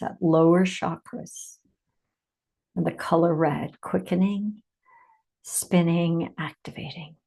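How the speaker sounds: measured meditation delivery with long pauses; unhurried meditation leader, phrase by phrase; guided meditation. Acted. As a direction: guide listeners inward, leaving space after each phrase.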